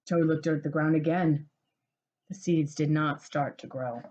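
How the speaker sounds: gentle storybook read-aloud; cozy picture-book narration; reading to children. A narrator's reading.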